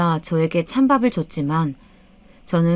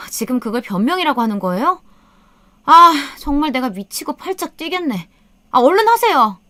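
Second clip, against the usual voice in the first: high, exasperated daughter-in-law, building louder; sharp, irritated; 8 semitones higher, 4 dB louder than usual. A narrator's reading. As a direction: snap impatiently at mother-in-law. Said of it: "며느리가 날선 목소리로 저에게 짜증을". (날카롭게 짜증 내며 다그치듯)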